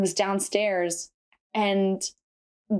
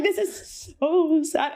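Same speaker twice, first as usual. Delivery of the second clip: mock sad; 5 semitones higher, much slower than usual. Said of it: "And I was like".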